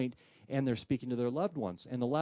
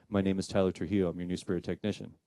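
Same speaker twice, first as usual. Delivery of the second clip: lower, flat otherworldly introduction; spirit voice; 4 semitones lower than usual. Retold or imitated. Spirit technician introduces himself over the speaker, low eerie voice.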